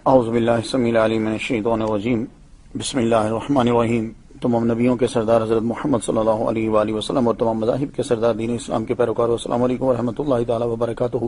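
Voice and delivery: calling in to a radio show by phone; radio show caller. Real, not acted. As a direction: voice over a phone line. ہمارے ساتھ line پہ موجود ہیں.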